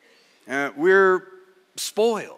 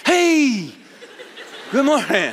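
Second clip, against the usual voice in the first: startled; 7 semitones higher, slower than usual. Retold or imitated. Father is startled awake by his son at dawn. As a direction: caught off guard by a face inches away.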